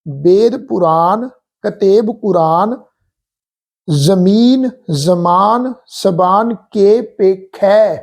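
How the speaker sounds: slow devout chant of the verse; scripture recitation. Acted. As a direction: recite it measured and reverent.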